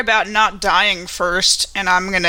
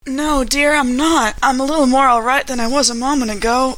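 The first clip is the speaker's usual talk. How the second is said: lightly voiced injured older woman, a touch higher; wounded but polite, asking for help; Grace in character; 3 semitones higher than usual. Hurt woman asks a companion for healing, lightly voiced.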